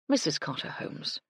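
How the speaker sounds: soft, clear and ringing; a hint of a soft, chiming voice; bell-like tones. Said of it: "in what could only be called bell-like tones".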